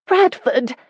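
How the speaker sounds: shrill high screech of a name; screeching hen. A narrator's reading. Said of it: "sounded like a screeching hen".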